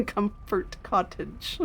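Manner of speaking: slurring with a retainer in; "Comfort Cottage" said slow and slurred, retainer in. Real, not acted. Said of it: "slur them more with my retainer".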